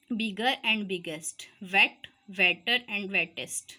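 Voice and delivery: teacher spelling out examples for the class, slow; slow example words. Shown as a demonstration. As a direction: say each form slowly and clearly. Teacher reads example forms.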